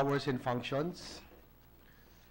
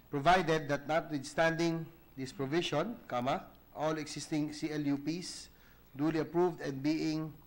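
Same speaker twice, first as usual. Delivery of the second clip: reading text aloud for the record, punctuation spoken; dictating. Acted. Reads proviso with spoken punctuation.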